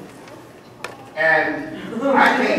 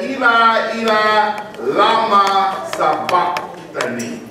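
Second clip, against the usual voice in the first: crying out the words from the cross; a preacher's anguished cry of Eli; loud cry; 3 semitones higher, slower than usual. Acted. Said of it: "cried with a loud voice".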